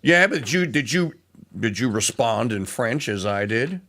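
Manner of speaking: ordinary talk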